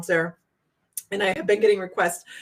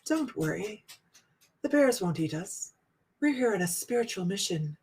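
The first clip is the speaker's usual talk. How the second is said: deadpan; 8 dB quieter than usual. Retold or imitated. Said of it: "she said it so deadpan".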